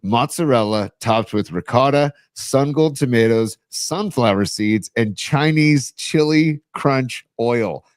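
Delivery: slow, relished list of toppings; reading out ingredients. Acted. Host reads a listener's new pizza recipe, slow savoring list. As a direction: draw out each ingredient, item by item.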